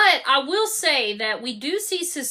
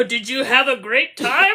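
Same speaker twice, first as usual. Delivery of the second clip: lightly put-on eager questioning voice; mock-keen question; imitated character voice; 3 semitones lower, 4 dB louder than usual. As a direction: imitate him asking, lilting up at the end. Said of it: "he said it in that voice".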